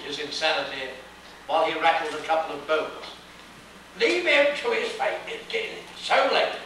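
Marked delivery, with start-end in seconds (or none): 4.0-6.6 high, hurried bellman in a fright; a high panicky character voice; bellman's high fearful cry; frightened bellman. A narrator's reading. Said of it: "the bellman exclaimed in a fright".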